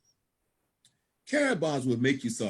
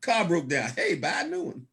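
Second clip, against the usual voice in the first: laughing it off. Acted. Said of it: "become almost hysterical to you".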